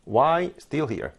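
only WHY, STILL, HERE carry stress, the rest dropped; content words only. Shown as a demonstration. Teacher showing how natives are heard, slow keyword stress. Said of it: "여러분들 발음 들으실 때".

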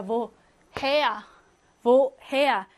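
Woher repeated as wo-HER; stress on second syllable. Shown as a demonstration. Teacher repeats the word to prove back stress, Woher as wo-HER. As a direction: put the weight on "her" in each Woher. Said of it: "강세가 뒤에 있다".

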